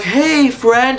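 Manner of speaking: high, lightly acted greeting; a hint of hopeful character voice; Pomni. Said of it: "Pomni just being like".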